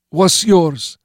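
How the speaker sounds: high, slow, blocked-nose voice; stuffed-up nose. A narrator's reading. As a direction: talk through a clogged nose. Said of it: "choked by snot clogging his sinuses".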